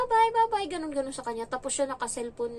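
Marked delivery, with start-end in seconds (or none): 0.0-0.7 high, sing-song imitated farewell; sweet eager goodbye. New wife trying to win over the cold employer, sugary high bye-bye. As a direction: play the eager sister-in-law waving bye. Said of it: "alam mo yung todo approach sa kanya".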